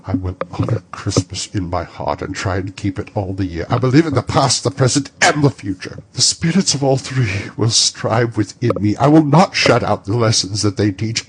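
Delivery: a desperate, fervent oath; fervent vow. Acted. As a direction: promise it with everything he has. Scrooge's vow to the spirit.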